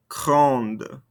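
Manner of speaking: "grande" with an audible N and D at the end; sounded ending consonants. Shown as a demonstration. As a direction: close "grande" on a released D. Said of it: "makes us pronounce those ending consonants".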